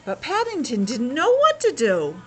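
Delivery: steady read-aloud storytelling voice; story narration. Acted. Parent reading Paddington to a child, storytelling voice.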